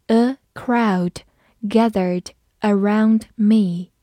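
A crowd gathered around me said slowly; slow read-along. Shown as a demonstration. Teacher reading slowly for the class to repeat. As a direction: stretch it out for repetition. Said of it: "我们慢读一遍".

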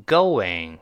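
GOING modelled slowly as "go-wing"; GOING as a drawn-out "go-wing" for repeating; linking w. Shown as a demonstration. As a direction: round the lips for a w inside GOING. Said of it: "跟老师再读一遍".

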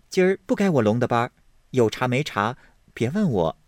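rapid, curt comeback; fast and dismissive; snappy retort. Acted. Hongyu fends off Bihen's question, quick.

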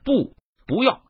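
high-pitched pleading cry, narrated; storyteller's high cry of despair; unwilling anguished cry. A narrator's reading. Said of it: "发出一声不甘的悲呼道".

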